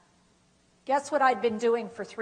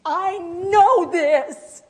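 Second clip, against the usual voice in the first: louder, higher, slow, choked-up protest; frustrated near tears; 5 semitones higher, 10 dB louder, much slower than usual. Shown as a demonstration. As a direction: plead through tears, slowly. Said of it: "when I'm struggling".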